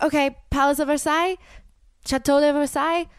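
put-on "Chateau de Versailles" in a botched half Asian, half French accent. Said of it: "half Asian accent, half French accent".

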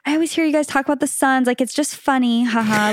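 lightly imitated passive-aggressive fan; falsely breezy, needling remark with a token haha. Rival fan messaging the podcaster, passive-aggressive. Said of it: "so passive aggressive".

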